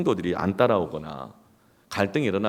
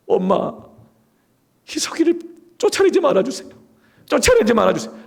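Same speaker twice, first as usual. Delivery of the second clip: very high, loud imitated child's plea; acted desperate pleading; 7 dB louder than usual. Siblings begging mother for their brother, acted desperate pleading. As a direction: beg frantically, clinging to mother. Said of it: "저희 어머니 옷자락을 붙잡으면서".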